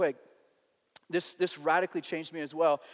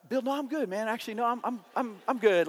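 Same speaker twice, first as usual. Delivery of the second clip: higher, stammering mock-nervous backpedal; hasty refusal; 6 semitones higher than usual. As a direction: politely back out of a scary offer. Acting out hastily declining a menacing offer.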